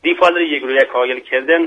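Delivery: proverb said in Mashhadi Persian accent. Shown as a demonstration. Guest quizzing the host on a local proverb, Mashhadi accent. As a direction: put the saying in Mashhad dialect.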